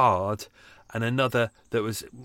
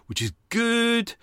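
much higher and slowed; squeaky aside; 12 semitones higher, slower than usual. Real, not acted. Pleased about his July vaccine, high slow squeak. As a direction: chirp it up high.

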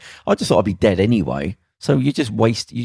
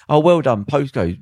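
sarcastic well done; 5 semitones higher than usual. Retold or imitated. To a gang kid who started a fight, higher sarcastic praise. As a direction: congratulate him, dripping with sarcasm.

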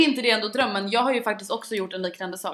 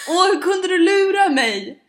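mock whine; 8 semitones higher, 7 dB louder, slower than usual. Imitating boyfriend's whiny complaint.

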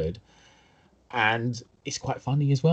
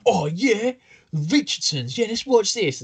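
higher-pitched, eager self-quote; keen discovery; 9 semitones higher, slower than usual. Retold or imitated. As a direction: act out being pleased by a lucky find. Acting out spotting a second-hand film.

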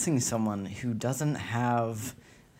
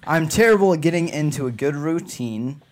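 put-on British accent; 4 semitones higher, 5 dB louder than usual. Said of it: "I'm going normal".

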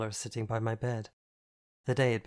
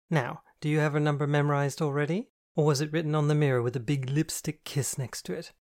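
higher, louder camp teasing voice; flamboyant friend, teasing; 3 semitones higher, 4 dB louder than usual. Acted. Andy teases Catherine about her date, higher and camp.

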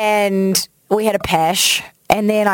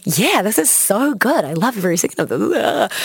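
feigned enthusiasm. Retold or imitated. At a terrible gig to impress a crush, fake enthusiasm. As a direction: pretend to love what you hate. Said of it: "pretending you like what they like".

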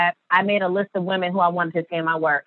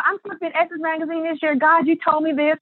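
retold cry to God; 8 semitones higher than usual. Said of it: "I'm screaming to God and crying".

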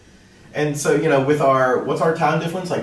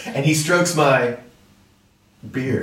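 slow dramatic pause; slower than usual. Retold or imitated. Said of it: "you had the pause at just the right part".

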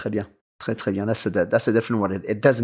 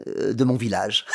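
usual speaking voice

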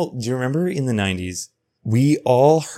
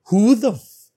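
sudden high, loud outburst cut off mid-curse; half-joking anger; 10 semitones higher, 5 dB louder than usual. Real, not acted. Podcaster riled up by childhood programming, mock angry outburst. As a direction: blurt it out, then catch yourself. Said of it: "oh, I'm mad at them".

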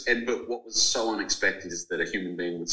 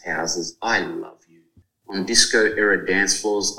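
reading aloud. Acted. Reads passage from his book.

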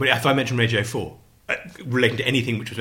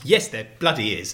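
ordinary talk, nothing marked

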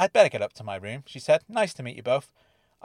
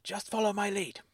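soft, hushed aside; quiet conspiratorial aside; whispered; 5 semitones higher, 7 dB quieter than usual. A narrator's reading. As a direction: murmur it close so no one hears. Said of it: "Dennis whispered".

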